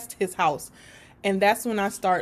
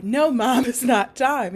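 put-on adamant boy; 3 semitones higher, 5 dB louder than usual.

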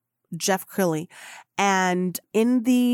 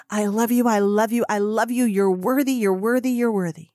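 loving affirmations. Real, not acted. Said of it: "I'm wrapping my energy".

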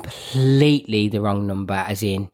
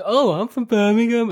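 half asleep; 9 semitones higher than usual. Retold or imitated. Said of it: "like, half asleep".

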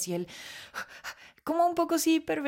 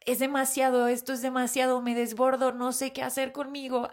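overwhelmed; 4 semitones higher than usual. Retold or imitated. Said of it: "fue como".

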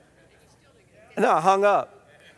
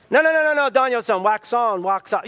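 Miyagi correcting; 3 semitones higher than usual. Retold or imitated. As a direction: cut him off with a quick no no no.

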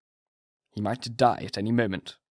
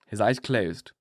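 ordinary delivery

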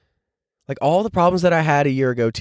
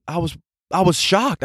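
normal talking voice

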